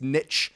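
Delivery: "niche" said as "nitch", short i and ch; American "niche", ending in a hard ch; nitch pronunciation. Real, not acted. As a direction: insist on "niche" rhyming with "rich". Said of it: "tired of everyone correcting me".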